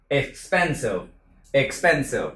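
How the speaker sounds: expensive with a short i in the middle syllable; careful demo of expensive; model expensive. Shown as a demonstration. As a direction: expensive spelled out slowly, short i sound. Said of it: "Còn âm này là âm y ngắn".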